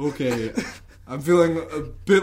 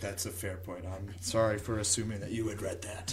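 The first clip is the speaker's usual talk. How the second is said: whispering; 7 semitones lower, 11 dB quieter than usual. Acted. Keeps whispering.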